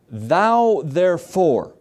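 Thou therefore stretched slow and weighty; slow, deliberate scripture reading; slow drawn-out reading. Shown as a demonstration. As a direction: linger on Thou therefore, each word drawn out.

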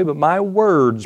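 "words" drawn out slowly to underline the plural; stress on WORDS. Shown as a demonstration.

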